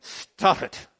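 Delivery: whispered flat warning; daughter's whisper. Retold or imitated. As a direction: hiss it under your breath. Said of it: "I'll try that with my oldest daughter".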